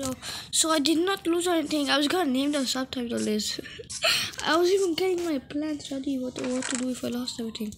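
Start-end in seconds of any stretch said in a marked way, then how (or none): 0.5-6.2 louder, half laughing with relief; giddy relieved gamer laughing at his luck; relieved excitement. Real, not acted. Relieved nothing was lost.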